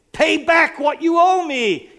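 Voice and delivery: high, loud angry demand. A narrator's reading. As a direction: grab him and demand the money. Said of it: "he demanded".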